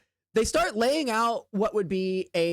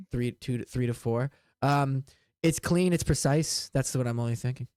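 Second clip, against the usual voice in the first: lightly voiced elf, lower and halting; wood elf, pondering; 6 semitones lower than usual. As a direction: think aloud in a lowered character voice. Voices the wood elf considering the tracks.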